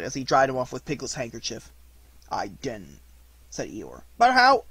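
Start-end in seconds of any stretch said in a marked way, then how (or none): 2.3-3.0 low, soft, glum denial; gloomy Eeyore. Acted. 4.2-4.6 high, loud, puzzled burst; eager little interrupter; eager questioning. Acted.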